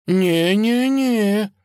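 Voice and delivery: auntie's drawn-out protest. Acted. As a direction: refuse firmly but kindly. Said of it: "запротестовала тётя Дуня".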